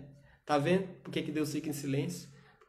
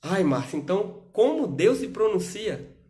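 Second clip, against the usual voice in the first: listener's question; 5 semitones higher, 6 dB louder than usual. Acted.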